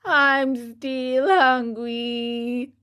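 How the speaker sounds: slow, drawn-out hungry whine; a yawning puppet moaning; wailing. A narrator's reading. Puppet to his father, a slow hungry wail. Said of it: "he yawned deeply and wailed".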